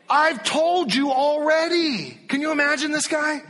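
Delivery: high, loud and laughing; laughing retort. Acted. Healed man laughing at the questioning Pharisees, loud. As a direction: toss it back with a laugh.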